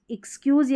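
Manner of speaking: एक्सक्यूज़ as "iks-kyooz"; first pronunciation variant. Shown as a demonstration. Teacher showing students both ways, short-i variant of एक्सक्यूज़. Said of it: "या एक्सक्यूज़ दोनों तरीके से".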